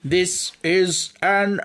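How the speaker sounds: high, very slow, word-by-word declamation; camp villain impression. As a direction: build theatrically to a drawn-out last word. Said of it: "He was very camp".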